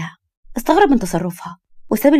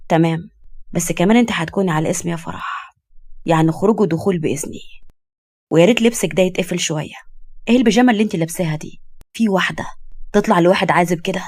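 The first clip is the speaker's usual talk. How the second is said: lightly voiced stern, lower man; a hint of possessive firmness; 3 semitones lower than usual. Man lays down his rules.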